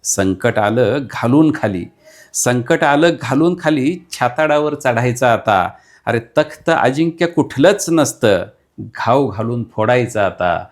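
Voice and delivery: fiery declaimed verse, building to a call to fight; rally the listener to fight, line by line; rousing poem recital. Acted. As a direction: poet declaiming a battle poem to the audience.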